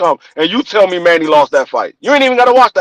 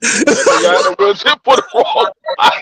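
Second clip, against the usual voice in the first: mock voice. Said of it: "repeated with changed voice".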